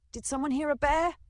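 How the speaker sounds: put-on high, loud alarmed old man; startled grandpa. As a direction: voice grandpa jumping at a growl. Startled grandpa voiced in story.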